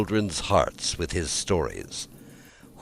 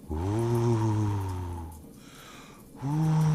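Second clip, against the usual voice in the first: moaning north wind; 3 semitones higher, 6 dB quieter than usual. A narrator's reading. The defeated north wind moans outside, long and eerie. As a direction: howl like the angry winter wind. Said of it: "gnash his teeth and say".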